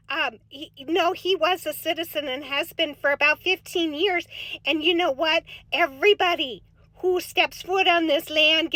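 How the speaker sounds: put-on folksy Minnesota accent, chatty and sing-song; light Upper Midwest accent with long round vowels; Minnesota soccer mom voice. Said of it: "Minnesota soccer mom voice".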